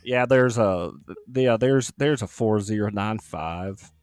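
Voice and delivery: slow mock Southern drawl; lightly put-on Southern voice on the phone. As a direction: read out numbers in a faked Southern drawl. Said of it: "That's your Southern voice".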